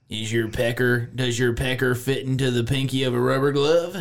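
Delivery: a hint of a country car-lot pitchman. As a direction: read it like a small-town Southern truck ad. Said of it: "You gonna use your country accent?".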